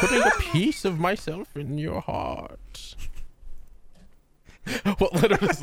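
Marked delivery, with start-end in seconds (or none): 0.0-2.9 whisper. Pretend. Old man quote, whispered.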